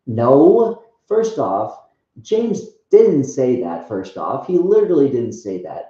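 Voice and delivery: firm denial, key words stretched and punched; emphatic rebuttal. Retold or imitated. Believer answering the devil's doubt, emphatic rebuttal. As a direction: push back hard, leaning loudly on the denials.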